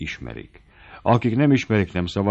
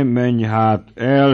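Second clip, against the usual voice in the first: very slow, louder recall; drawn out; 4 semitones higher, 5 dB louder, much slower than usual. Acted. The baron calls the servant back, slow and loud. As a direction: stretch it out to hold him back.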